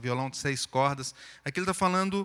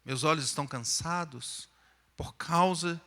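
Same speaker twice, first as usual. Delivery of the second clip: pleading psalm reading; 4 semitones higher than usual. Acted. Reads the psalm as a plea.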